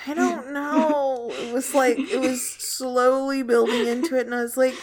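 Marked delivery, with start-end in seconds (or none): 0.1-1.3 high, loud, slow laugh-crying; giggling helplessly. Real, not acted. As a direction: laugh through the words. Laughing at friend's reading.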